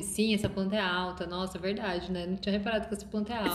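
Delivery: mock exaggerated agreement. Friend parodying how they echo each other, mock gushing. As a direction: rattle off fake amazement. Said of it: "A outra responde".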